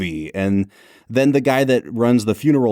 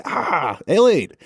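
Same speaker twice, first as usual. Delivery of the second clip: excited recognition; 7 semitones higher than usual. Retold or imitated. Spotting Kentucky soda in movie.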